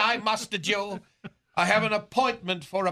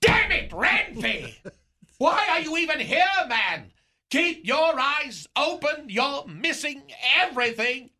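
exasperated scolding; 4 semitones higher than usual. Retold or imitated. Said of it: "I said".

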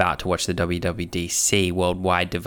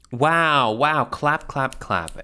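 mock applause; 6 semitones higher, much slower than usual.

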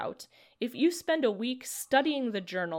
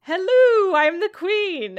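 high-pitched put-on royal voice; a reluctant attempt at the old man voice, landing high; 10 semitones higher, 12 dB louder, slower than usual. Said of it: "Do the voice".

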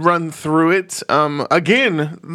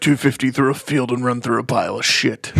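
redneck voice; 2 semitones lower than usual. Pretend. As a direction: play a tired redneck. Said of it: "your new character, Tired Redneck".

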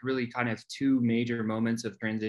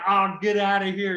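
dismissive boss; 6 semitones higher, 5 dB louder than usual. Retold or imitated. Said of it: "he's like".

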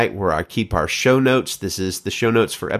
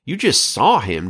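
exclaiming; 6 semitones higher than usual. Acted. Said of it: "Joab exclaimed".

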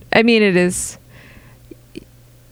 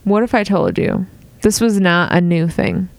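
infomercial pitch. Pretend. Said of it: "I'm an infomercial".

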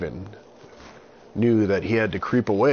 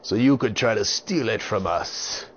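louder, sly pirate voice; 4 semitones higher, 4 dB louder than usual. Acted. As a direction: taunt like a scheming pirate. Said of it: "They said".

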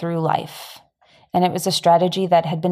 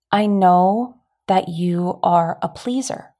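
gentle and serious; slower than usual. Retold or imitated. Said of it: "sweetly and seriously".

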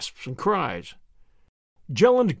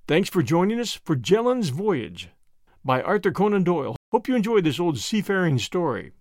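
usual speaking voice

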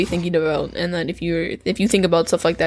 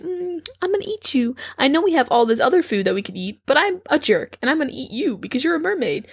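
jerk fisherman; 6 semitones higher than usual. Retold or imitated. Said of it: "And you're like".

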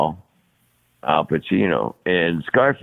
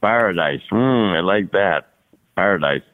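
Al Pacino. Retold or imitated. Actor relishing a borrowed word, lightly imitated. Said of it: "Al said".

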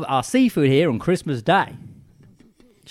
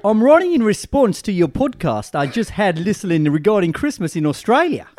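Farhan's voice. Retold or imitated. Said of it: "Do it in Farhan's voice".

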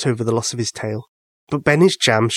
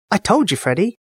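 higher pleased mouse voice; smug little mouse; 7 semitones higher than usual. Acted. Tyler boasting to Freddy about the jam, high and smug. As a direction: crow a little to your friend.

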